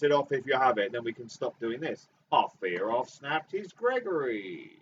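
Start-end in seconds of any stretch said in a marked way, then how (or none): 2.3-4.7 Cockney accent. Shown as a demonstration. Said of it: "This is, this is Cockney".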